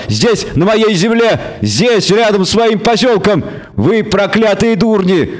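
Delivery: high, outraged goat-devil rant; bleating devil. A narrator's reading. Devil forbidding murder on his own land, bleating. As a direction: bleat furiously at a high pitch. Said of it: "заблеял ещё громче".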